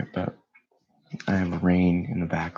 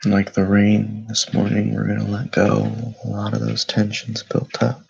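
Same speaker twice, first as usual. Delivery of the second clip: calm, unhurried meditation voice with long pauses; guided meditation; 3 semitones higher, 7 dB louder than usual. Acted. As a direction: guide listeners gently into stillness, leaving space between phrases.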